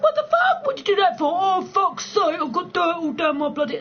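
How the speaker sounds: high, loud mock outrage; outraged older friend. Imitating a friend pushed into a bush, high mock outrage. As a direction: squeal like a middle-aged mate shoved in a bush. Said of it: "And they're like".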